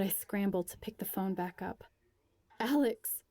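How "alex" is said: loud alarmed call of a name; crying out. A narrator's reading. Friend sees Alex fall and cries out. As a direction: shout her friend's name in fright. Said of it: "cries Steph".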